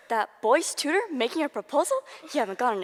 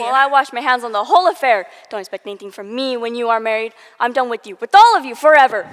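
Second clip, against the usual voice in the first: loud, building to a shout; furious; 10 dB louder than usual. Acted. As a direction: storm off shouting the last words. Aunt storms off furious.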